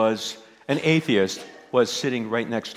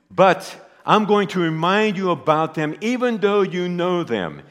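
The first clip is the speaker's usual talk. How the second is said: voicing Jude; 4 semitones higher, 3 dB louder than usual. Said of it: "And Jude is saying".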